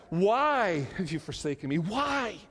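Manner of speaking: anguished plea, rising on the last why; acted anguish. Preacher quoting Jesus forsaken, acted anguished plea. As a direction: plead it, imitating anguish. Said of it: "The emotional anguish, you hear that".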